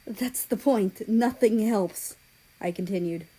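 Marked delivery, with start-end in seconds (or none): 0.1-2.1 slow and louder, pressing each word; emphatic. A narrator's reading. Narrator insists to Ukraine, slow and loud. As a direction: drive the point home slowly. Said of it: "emphatic reply after exclaiming".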